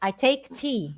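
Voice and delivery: slow, drawn-out quote; a hint of the proper Englishman; mild put-on English gentleman; lightly posh Englishman. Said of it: "Aí ele fala".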